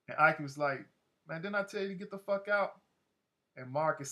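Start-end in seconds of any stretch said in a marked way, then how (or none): 1.3-2.8 higher-pitched, exasperated demand; angry order. Retold or imitated. Gang leader to boy who stayed, imitated irritated demand. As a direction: imitate a boss fed up at being disobeyed.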